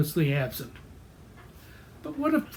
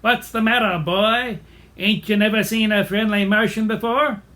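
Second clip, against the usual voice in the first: lightly voiced character, louder; a hint of a blustery cartoon character; Old Wibbly; 2 semitones higher, 4 dB louder than usual. Old Wibbly to Freddy, who mistakes him for a Martian, lightly voiced character. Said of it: "illustrate Old Wibbly's personality".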